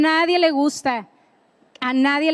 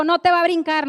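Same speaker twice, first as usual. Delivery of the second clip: mom's scolding; 5 semitones higher, 3 dB louder, faster than usual. Retold or imitated. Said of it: "Mi mamá siempre cuando nos mandaba".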